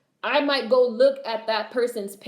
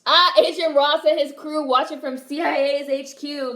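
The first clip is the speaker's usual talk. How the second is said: higher, louder, slow announcer read; dramatic narration; 6 semitones higher, 6 dB louder than usual. Real, not acted. Reading the film's scene to chat like a trailer voice.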